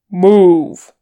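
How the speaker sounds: loud barked command; barked order. A narrator's reading. Wizard barking at the fellowship to run, loud bark. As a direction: snap them into motion with one shout. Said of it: "Gandalf barked".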